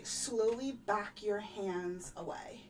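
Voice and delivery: slow, measured instruction; careful instruction. Acted. Player guides the amulet holder's hands, slow and careful. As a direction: draw the words out carefully. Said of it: "And then I'm gonna say".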